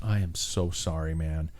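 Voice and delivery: sincere sympathy. Retold or imitated. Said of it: "the most genuine look in his face".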